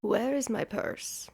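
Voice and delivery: whispered, slowing down; panicked whisper. Retold or imitated. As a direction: whisper it in sudden alarm. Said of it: "Wait, I'm like".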